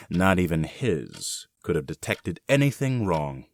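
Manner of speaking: a quiet laugh of private glee; gloating chuckle. Acted. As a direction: chuckle it to yourself, pleased with the trick. Gloating over hidden corpse.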